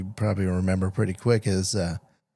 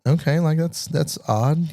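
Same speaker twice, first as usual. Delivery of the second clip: puzzled; 6 semitones higher than usual. Retold or imitated. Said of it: "And I'm like".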